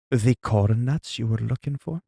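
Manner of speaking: lightly put-on suggestive clerk voice; raunchy clerk impression. Clerk showing a customer the snack, playfully raunchy. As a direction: ask it with mock innuendo and an attempted accent. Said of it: "like, raunchy about it".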